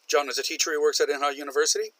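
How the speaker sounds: rushed together; run-on, no pause. Shown as a demonstration. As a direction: run straight through without a break. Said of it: "Separate them with a comma".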